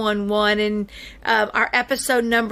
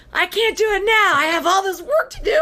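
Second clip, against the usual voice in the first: high, whiny mimic of a busy husband; hammed-up mimic of the husband begging off work; mock busy husband; 9 semitones higher than usual. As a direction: mimic him begging off, higher and put-upon. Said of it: "He's like".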